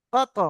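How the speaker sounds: "কত" with a quick echo after the stop; bouncing final consonant in "কত"; qalqalah release. Shown as a demonstration. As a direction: release the end of "কত" as a separate bounce. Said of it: "এই ত বলে যে ছেড়ে দিচ্ছি".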